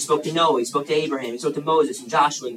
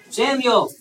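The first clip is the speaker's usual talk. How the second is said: "Samuel" called out at a raised pitch; calling a name; 8 semitones higher, 3 dB louder, slower than usual. Acted. God calls the boy Samuel at night, calling out. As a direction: call to a sleeper, each name separate.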